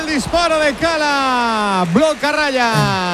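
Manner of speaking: excited commentary. Real, not acted. Live goal-chance commentary.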